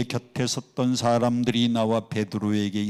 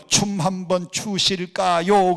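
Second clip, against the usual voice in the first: slow, higher Seoul polite invitation; drawn-out Seoul standard; Seoul speech; 5 semitones higher, 3 dB louder, slower than usual. Shown as a demonstration. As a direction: stretch out the courteous Seoul phrasing. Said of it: "서울 사람들은요".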